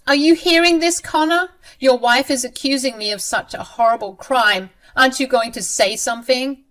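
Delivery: high, loud shocked appeal; outraged mother-in-law. Acted. Mother-in-law appealing to her son, high and outraged. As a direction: shriek for her son to take her side.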